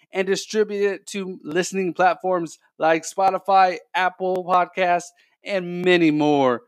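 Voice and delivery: upbeat, quick sponsor read; bright host-read podcast ad. Acted. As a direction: sell it like a radio spot.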